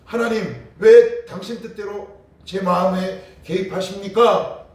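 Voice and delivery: loud, slow, high anguished cry to God. Acted. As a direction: wail the question up at heaven. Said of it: "이렇게 울부짖을 수 있지만". (하나님께 크고 느리게 울부짖듯이)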